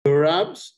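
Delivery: "Euros" said loud with a clear final s; corrected pronunciation. Shown as a demonstration. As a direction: give "Euros" as a firm correction, voicing its plural ending. Teacher corrects learner's missing plural.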